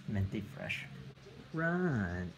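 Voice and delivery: talking round a retainer; wearing a retainer. Real, not acted. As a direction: retainer in the mouth. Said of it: "putting my retainer back in".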